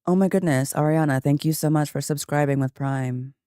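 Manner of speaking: thanks kept down in a low register. Shown as a demonstration. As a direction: say the happy thanks without going up. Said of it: "can I say that in, like, a deeper voice".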